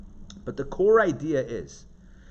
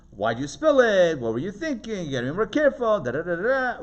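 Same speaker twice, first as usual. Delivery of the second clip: scolding parent; 3 semitones higher than usual. Retold or imitated. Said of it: "Another approach is".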